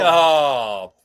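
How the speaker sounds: sudden joyful whoop; excited shout. Real, not acted. Cohost cheering the title win, a joyful shout. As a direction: let out a happy yell. Celebrating the championship.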